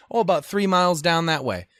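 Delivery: confidently wrong, breezily; breezy local. Retold or imitated. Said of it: "and they will point".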